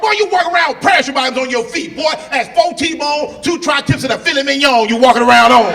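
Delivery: high loud scolding country dad; loud mock scolding; mad dad. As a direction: rant at the son's feet. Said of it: "He was mad at me".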